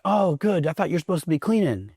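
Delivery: high, sarcastic drill instructor jab; mock drill instructor. Drill instructor mocking the recruit on the toilet, sarcastic. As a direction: needle the recruit like a drill sergeant.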